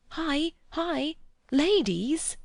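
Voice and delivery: loud alarmed call across the woods; urgent shout. A narrator's reading. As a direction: yell to warn them the ladies are near. Vicar warns boys of ladies.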